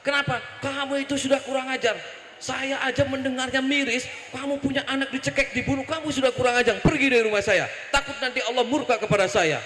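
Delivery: high-pitched retold scolding; indignant tirade, acted out; angry rebuke. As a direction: berate her as an outraged prophet. Acted prophet scolds and dismisses woman.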